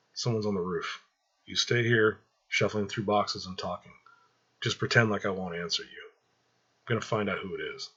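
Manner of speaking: whispered. Acted. Michael warns his mother of someone on the roof, hushed. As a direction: keep it down so the roof can't hear. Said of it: "Michael whispered to Angela".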